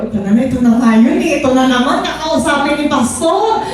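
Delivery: hammed-up inner groan; mock dread. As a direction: voice the kid being called to the office. Mock dread of being summoned.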